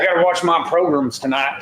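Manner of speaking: put-on old smoker voice, lightly done; smoker's rasp. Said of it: "I don't know why I did a smoker's voice".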